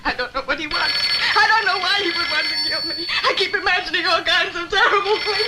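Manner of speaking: fighting sobs as the fear spills out; breaking down. Acted. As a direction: voice rising toward tears. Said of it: "Let it out, honey".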